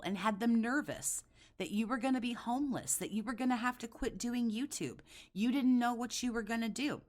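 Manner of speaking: high, heated, accusing rant; wild unhinged ranting. Real, not acted. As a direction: lay into him, voice up. Escalating rant, higher pitch.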